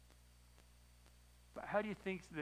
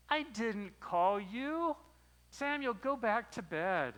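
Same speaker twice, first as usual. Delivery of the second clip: slow, sleepy mumble, louder; half-awake drawl; groggy; 6 semitones higher, 5 dB louder, much slower than usual. Retold or imitated. Old priest woken at night, answering the boy sleepily. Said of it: "he's kind of groggy".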